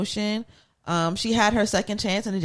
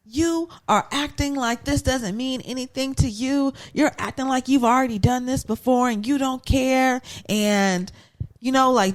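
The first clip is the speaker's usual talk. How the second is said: a hint of a scolding Tyra, slightly higher; 4 semitones higher than usual. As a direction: lightly imitate Tyra going off at her. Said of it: "She's going off".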